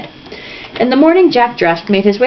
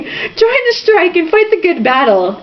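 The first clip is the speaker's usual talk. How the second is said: higher, slow slogan chant; mild mock shout; 9 semitones higher, slower than usual. A narrator's reading. Kid shouting strike slogans alone in the square. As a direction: call out the slogan like a kid marching.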